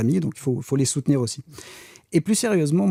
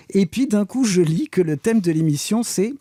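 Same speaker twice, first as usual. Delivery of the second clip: mock alarm; 7 semitones higher, 3 dB louder than usual. Reading the show's topic, mock alarmed. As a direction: pitch jumps up in fake alarm. Sudden shock at email theme.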